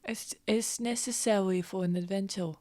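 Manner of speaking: soft, secretive reply; whispered justification. Acted. Adventurer persuading the child to scheme, whispered. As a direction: whisper it confidentially.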